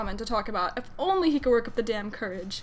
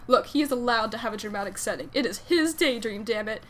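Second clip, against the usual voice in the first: expressive fan fiction read-aloud; lilting storytelling delivery; story narration. A narrator's reading.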